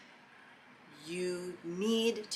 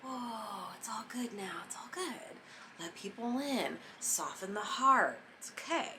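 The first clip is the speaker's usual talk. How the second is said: breathy hushed whisper, then soft and slow; soothing whisper; 3 semitones higher, 4 dB quieter than usual. Retold or imitated. To listeners, voicing a softened heart in a hushed whisper. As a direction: whisper it like calming a hurt heart. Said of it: "It's like".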